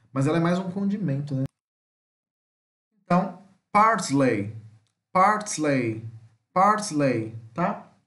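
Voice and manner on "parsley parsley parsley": "parsley" stressed on the first syllable, falling; careful teacher's "parsley"; pronunciation demo. Shown as a demonstration. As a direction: model "parsley" slowly, with pauses between takes. Teacher models English word repeatedly.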